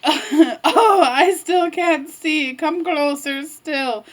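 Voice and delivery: slow, lightly put-on granny voice; wolf posing as grandma. Wolf luring Red closer, coaxing as Grandma. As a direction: stretch it out, coaxingly.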